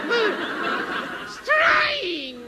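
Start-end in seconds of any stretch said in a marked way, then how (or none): 1.3-2.4 high strained yell of effort; straining shout. Acted. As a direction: scream it out with all your will. Strain, final push.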